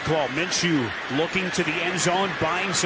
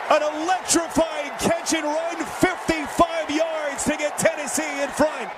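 excited. Real, not acted. Touchdown call building to a shout.

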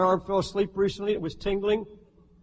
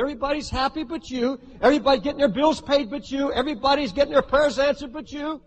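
quick, needling list of accusations, climbing higher; accusing devil; 5 semitones higher than usual. Acted. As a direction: pile on the taunts as the accuser. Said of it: "He'll say".

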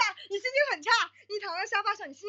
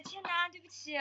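meek apology; 10 dB quieter than usual. Retold or imitated.

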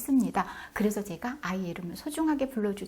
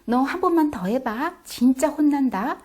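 threatening warning; 5 semitones higher, 7 dB louder than usual. Shown as a demonstration. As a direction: warn the child, dragging it out. Mom threatening child.

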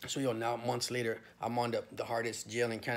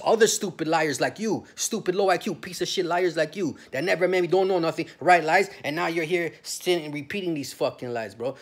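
louder, higher angry rant at the agent; furious retold yelling; 4 semitones higher, 5 dB louder than usual. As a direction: tear into her, voice climbing.

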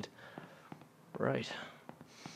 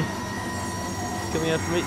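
whispered; 5 semitones higher, 3 dB louder, much slower than usual. Real, not acted. Whispered repeat of the line.

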